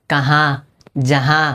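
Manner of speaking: কাহা and জাহা ending in nasal vowels, no full n; কাহা, জাহা with the n dissolved into nasal vowels; nasal noon ghunna. Shown as a demonstration. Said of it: "সেটা নাকে চলে যাবে".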